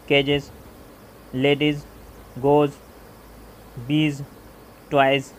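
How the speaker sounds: each word punched out loud; loud example words. Shown as a demonstration. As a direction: drill the list like a teacher. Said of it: "जैसे ट्यूब्स". (हर शब्द ज़ोर से)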